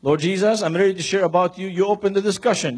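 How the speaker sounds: prayer repeated. Shown as a demonstration.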